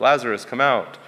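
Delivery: a modest lift in volume, calling a name. Shown as a demonstration. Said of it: "like, slightly louder".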